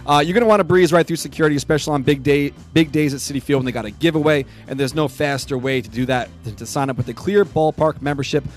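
punchy, projected ad-read delivery; sponsor read. Real, not acted. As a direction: read the promo copy to listeners. Reads the sponsor copy.

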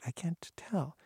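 whispered to herself; whispered thought. Retold or imitated. Teen leaving the house, whispering her doubt. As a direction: mull it over under her breath. Private thought walking away.

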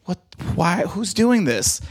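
high, hurt, bewildered comic voice; upset heckled comic. Retold or imitated. Heckled comic asking who is shouting punchlines, hurt and high. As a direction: whine it like a wounded comedian. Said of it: "he was so upset and hurt".

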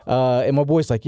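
ordinary delivery

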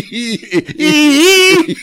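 tiny high-pitched he; squeaky he. Pretend. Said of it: "mini me trying to communicate".

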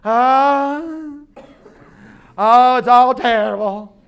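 loud, wailing, hammed-up gloom; over-the-top doom-and-gloom wail; gloomy complainer. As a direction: moan it like a drama-queen pessimist. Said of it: "have you ever been around someone".

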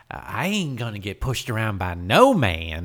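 lightly hammed southern accent; southern daughter. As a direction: imitate a headstrong southern girl. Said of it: "his children don't have accents".

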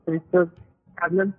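muffled caller on a bad line; muffled, breaking-up phone audio; stream quality dropping. Real, not acted. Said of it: "It sounds like you're muffled".

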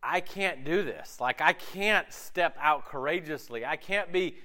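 slow, hesitant mock timid voice. The timid inner voice tells him he can't be courageous, slow and hesitant. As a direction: drag it out like a doubter. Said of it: "The timid voice says".

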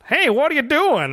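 mock-frightened actor, voice jumping up on hey; imitating a badly acted fright, drawn out; bad scared acting. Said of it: "he has to act frightened".

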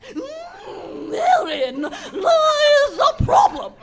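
rising wicked cackle voice; evil old woman. Acted. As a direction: swell from a purr to a cry. Villain's voice swells.

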